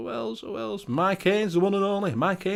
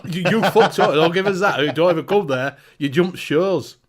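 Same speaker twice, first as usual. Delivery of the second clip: laughing, louder mock scolding of an old friend; mock telling-off; 6 dB louder than usual. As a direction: pretend outrage while laughing. Mock telling-off of returning co-host.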